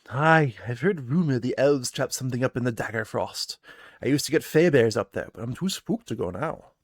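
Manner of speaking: spooked townsfolk sharing a rumor; lightly voiced villager. Villager tells the party a rumor, a little spooked. NPC voice about the spooked berry picker.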